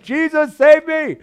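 retold cry. Pastor recalling his bike prayer, a milder cry. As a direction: call out to Jesus again in the retelling. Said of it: "And I'm like".

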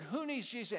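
high, ringing altar call. Retold or imitated. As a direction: call out to the crowd.

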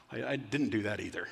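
low, soft, hesitant confession; sheepish admission. Acted. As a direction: own up meekly to a wife. Husband admits failing his wife.

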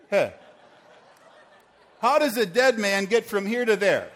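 loud, high, laughing hey-hey calls; laughing protest. Real, not acted. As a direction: call him back while cracking up. Dead volunteer walks off wrongly.

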